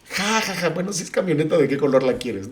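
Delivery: high laughing teasing reply; laughing quote. Retold or imitated. Father laughing with his daughter about the car.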